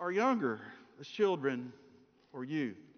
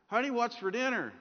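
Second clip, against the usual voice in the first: lightly raised pitch, calling across the kitchen; husband calling to wife; 5 semitones higher than usual. Acted. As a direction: call out to your wife from behind her. Husband testing wife's hearing.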